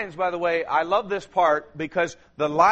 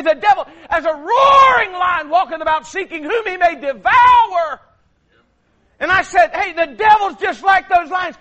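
loud, high preacher's cry, building; full-voiced pulpit shout; fiery preaching; 11 semitones higher, 9 dB louder than usual. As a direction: preach it hard to the congregation. Preaching returns to full force.

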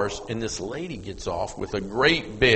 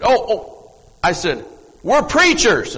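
higher and louder, rushed to reassure; eager reassurance; 10 semitones higher, 7 dB louder than usual. Retold or imitated. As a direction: call out fast so she is not afraid. Startled woman, reassuring her quickly.

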